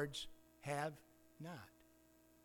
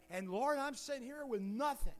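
higher, plaintive "with nothing"; a higher, self-pitying cry to God; self-pitying lament; 7 semitones higher than usual. Acted. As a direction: whine it to the Lord. Envious churchgoer's lament.

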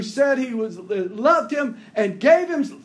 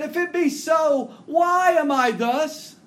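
raised, higher anguished outcry; anguished cry; 6 semitones higher than usual. Retold or imitated. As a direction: cry it out to heaven in distress. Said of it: "This is the same cry".

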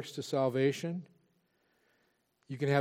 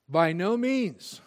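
slow and louder, every word hit; terse emphatic no; 4 semitones higher, 5 dB louder, much slower than usual. Shown as a demonstration. Preacher giving Paul's blunt answer, slow and hammered. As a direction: slam the door on the idea. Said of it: "Here's the terse response".

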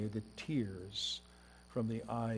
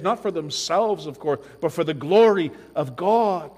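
loud, high, building pulpit cry; full-force preaching; 4 semitones higher, 13 dB louder than usual. Acted. Preacher retelling the martyrs' cry, full force. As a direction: lift it and drive it home.

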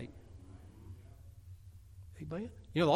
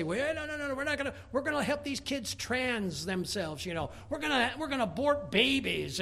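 high, hammed-up politician voice; a sneering take on a politician; mocking officials; 5 semitones higher than usual. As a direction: mimic a smug official brushing it off. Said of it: "our government officials say".

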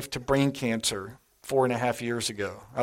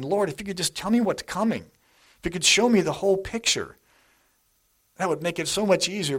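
raised, earnest plea to God; pleading prayer; 6 semitones higher than usual. Retold or imitated. Preacher voicing a believer begging God to reveal the plan, raised pleading. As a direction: plead upward, voice lifted high.

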